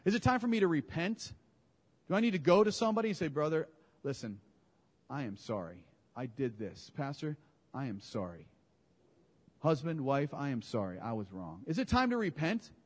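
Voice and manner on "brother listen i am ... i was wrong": softer, lower, humble; sincere apology. Pretend. Believer apologizing to brother, pastor, spouse, softly and humbly. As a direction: say sorry from the heart.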